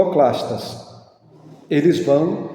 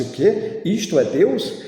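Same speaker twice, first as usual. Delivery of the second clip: higher, mildly astonished question; stupore imitato; 5 semitones higher than usual. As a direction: play a startled listener asking in disbelief. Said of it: "fica assustado e disse".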